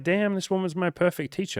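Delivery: high-pitched marvelling realisation; amazed mock quote. Animated quote of amazed friend.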